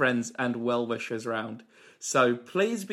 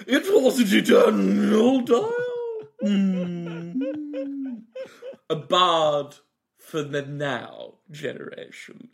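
Michael Holmeal. Acted. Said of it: "It's Mister Michael Holmeal".

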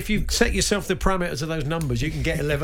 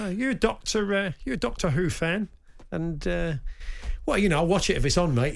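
chatty pub bloke; 3 semitones higher than usual. Retold or imitated. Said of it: "suddenly you hear this voice go".

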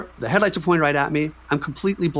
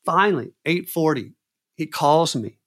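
normal talking voice

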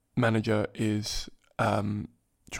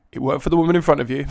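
higher, louder and quicker, breaking into laughter; amused self-talk; 4 semitones higher, 6 dB louder, faster than usual. Retold or imitated. Telling how he coaxed himself to cry, amused and starting to laugh. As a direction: urge yourself on, tickled by the cheek of it. Cracking up at own story.

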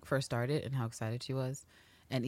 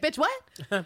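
stunned dad; 12 semitones higher than usual. Retold or imitated. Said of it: "He's like".

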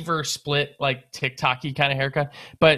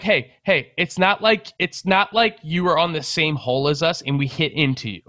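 higher-pitched, insistent pushback; retold protest; 3 semitones higher than usual. Brother defending the errant shot to an angry golfer, retold protest. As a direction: replay a heated objection, mildly raised.

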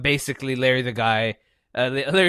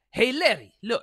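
mock Santino; 8 semitones higher than usual. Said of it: "So he's just like".

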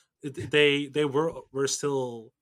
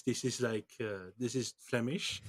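Flemish accent; 4 dB quieter than usual. Shown as a demonstration. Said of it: "They, they have to speak like this".

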